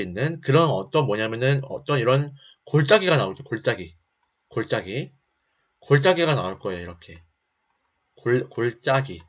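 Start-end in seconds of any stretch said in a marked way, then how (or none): 3.4-5.1 words slurred by dental braces; talking with braces. Real, not acted. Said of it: "교정기 끼다 보니까 발음이 너무 힘드네". 8.2-9.2 stumbling over 골짜기 with braces; talking with braces. Real, not acted. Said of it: "교정기 끼다 보니까 발음이 너무 힘드네".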